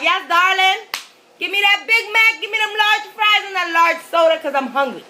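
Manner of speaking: high, loud, gushing mock order; happy, super excited. Hungry customer ordering from a surly cashier, excited. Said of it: "I'm happy".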